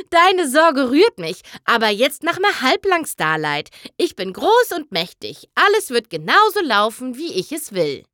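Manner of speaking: the great and powerful showmare brushes off worry; boastful Trixie. Acted. (prahlerische Trixie, langsam und großspurig)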